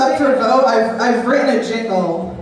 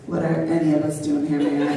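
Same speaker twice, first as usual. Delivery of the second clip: stoned pothole voice; 8 semitones lower, 5 dB quieter than usual. Pretend. The pothole answering the fallen man, low and lazy. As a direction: lower and softer, like a philosophical stoner. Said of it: "the pothole would be like".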